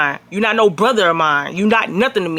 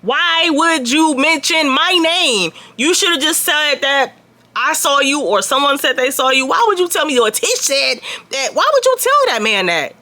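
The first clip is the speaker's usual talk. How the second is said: exasperated confronting; 5 semitones higher than usual. Retold or imitated. Confronting Haley about telling.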